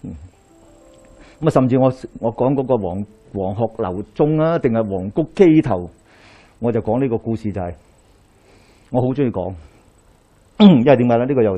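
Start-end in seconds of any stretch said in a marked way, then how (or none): none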